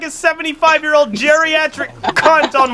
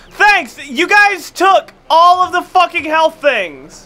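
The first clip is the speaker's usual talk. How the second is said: raised, high-pitched, stretched-out complaint; exasperated rant; 5 semitones higher, 3 dB louder, slower than usual. Real, not acted. Player scolding teammates who took health, exasperated. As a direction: rail at them, dragging out the key words.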